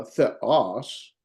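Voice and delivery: THEOS with weight on the second syllable; accented-syllable stress. Shown as a demonstration. Teacher summing up accent rule, final syllable stressed. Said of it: "put the stress on that syllable".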